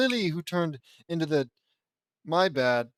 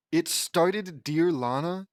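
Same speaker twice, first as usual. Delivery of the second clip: put-on British accent; 3 dB louder, slower than usual. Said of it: "British people just use dear a lot".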